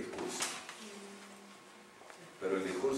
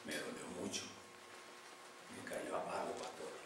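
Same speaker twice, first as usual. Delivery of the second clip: respuesta dolida; 3 semitones lower, 13 dB quieter than usual. Retold or imitated. Woman tells pastor word hurt.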